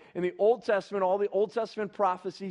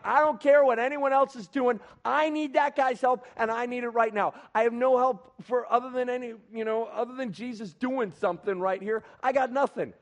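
raised, higher-pitched urgent insistence; insistent defiance; 5 semitones higher, 4 dB louder than usual. Acted. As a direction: push back at the crowd, demanding help. Blind man insisting over the crowd.

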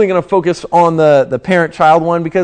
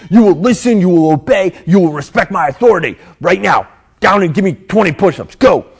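louder barked commands; drill sergeant; 3 dB louder than usual. Retold or imitated. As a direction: order recruits around, hard and loud. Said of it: "kind of like a drill sergeant".

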